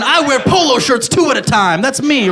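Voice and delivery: douchebag frat guy. Retold or imitated. Mocking a frat bro at the gym, boasting loudly. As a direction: brag like a proud frat jock.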